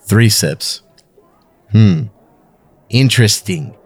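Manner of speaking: attempted South African accent. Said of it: "he's gonna do it in his best South African accent".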